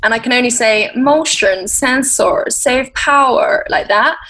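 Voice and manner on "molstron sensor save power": Asian accent. Shown as a demonstration. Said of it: "trying to do an Asian accent".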